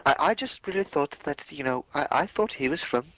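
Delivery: high, put-on clueless voice; playing dumb. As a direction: ham up a dim-witted excuse. Mock clueless excuse continues.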